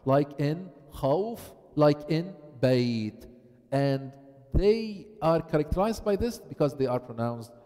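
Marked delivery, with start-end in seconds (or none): 0.9-1.4 خوف drawn out on a soft aw glide; soft leen. Shown as a demonstration. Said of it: "pronounced easily". 2.6-3.3 بيت drawn out on a soft ay glide; soft leen. Shown as a demonstration. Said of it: "pronounced easily".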